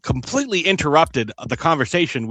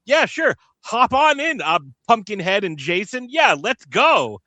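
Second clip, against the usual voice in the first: eager welcome; 4 semitones higher than usual. Pretend. Imagined eager welcome to photobomb.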